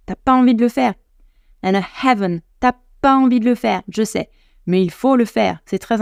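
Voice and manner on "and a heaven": "heaven" with an audible breathed H; English "heaven" with deliberate aspirated H; sounded H. Shown as a demonstration. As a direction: puff out the H starting "heaven". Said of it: "le H sonore".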